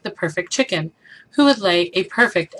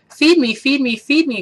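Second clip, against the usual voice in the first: high, whiny duckling demand; whiny baby duck; 6 semitones higher, 3 dB louder than usual. A narrator's reading. The hungry baby duck demands food, high and whiny. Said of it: "cried the so-, the hungry baby duck".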